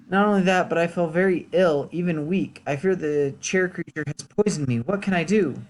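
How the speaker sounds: lightly acted worry, pitch lifting; worried peasant. Peasant fearing the chair creature poisoned him, mildly worried. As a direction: plead a little, as a sick villager.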